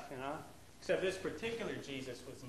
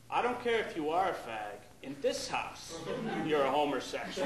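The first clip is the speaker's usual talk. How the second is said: louder, firm house rule; stern dad; 5 dB louder than usual. Retold or imitated. Dad to gay friends visiting home, louder and firm. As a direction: lay down the law. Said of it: "my dad would say".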